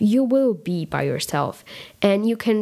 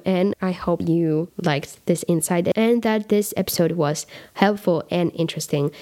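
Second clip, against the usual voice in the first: raspy voice. Real, not acted. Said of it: "Sorry for my raspy voice".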